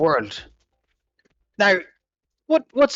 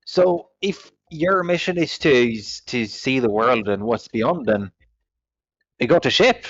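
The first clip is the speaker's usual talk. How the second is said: ship captain character; 4 semitones higher than usual. Acted. Captain character offering a job.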